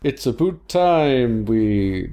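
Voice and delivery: slow, drawn-out attempt at Canadian; half-hearted comic Canadian accent. Shown as a demonstration. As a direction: start a Canadian impression, stretching the vowels. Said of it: "not gonna continue with that one".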